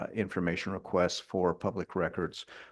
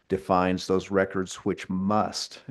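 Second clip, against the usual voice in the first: slowed, must given weight; slow down and land on must; stress on must; slower than usual. Real, not acted. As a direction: press the word must. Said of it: "I emphasize the word must".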